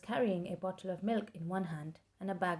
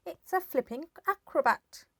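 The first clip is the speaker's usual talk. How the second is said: put-on old woman shouting; 9 semitones higher, 8 dB louder than usual. A narrator's reading. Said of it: "Grandma shouted from the rooftop".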